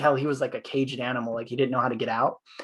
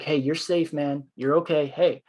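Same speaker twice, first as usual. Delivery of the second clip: higher, soothing retold reassurance; calming him down; 3 semitones higher than usual. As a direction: talk an angry man down gently. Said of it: "I was just talking him down and keeping him calmer".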